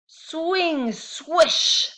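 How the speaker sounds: high, loud swooshing; sound effects. A narrator's reading. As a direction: sell the swing like a whoosh.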